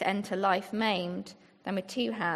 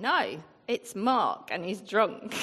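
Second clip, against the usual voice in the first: put-on sing-song northern English accent. Speaking to a church, quoting a woman's line in a northern english accent. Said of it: "such a good northern accent".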